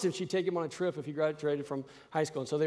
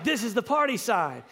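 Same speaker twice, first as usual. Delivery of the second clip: eager son; 5 semitones higher than usual. Retold or imitated. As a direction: raise your hand and shout it. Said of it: "he's like".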